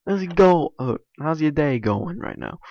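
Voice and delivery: high, loud, eager hey; breezy, upbeat way of asking the same thing; casual excited greeting. Shown as a demonstration. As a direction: bounce up into a chirpy hello. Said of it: "different accent and different ways".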